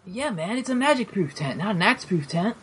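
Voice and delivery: relaxed easy shopkeeper talk; laid-back merchant voice. Acted. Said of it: "This is my favorite voice".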